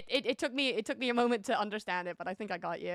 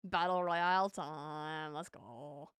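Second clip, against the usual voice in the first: drawn-out announcing; 5 semitones lower, much slower than usual. Real, not acted.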